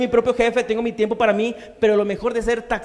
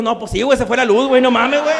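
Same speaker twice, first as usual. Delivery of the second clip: loud teasing retold doctor; hammed-up jeering voice; a hint of a doctor mocking the patient; 3 semitones higher, 6 dB louder than usual. Other doctor laughing at lump.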